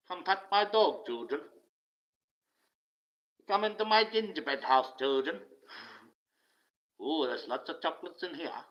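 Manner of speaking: put-on high, coaxing creep luring kids; sing-song lure like a witch with sweets; a man in the park coaxing children, creepy high lure; creepy lurer voice.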